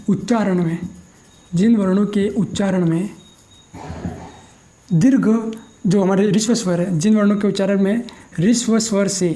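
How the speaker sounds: slow, word by word with long pauses; slow dictation. Shown as a demonstration. Teacher dictating a definition for students to copy, slow and spaced. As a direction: dictate it slowly so students can write.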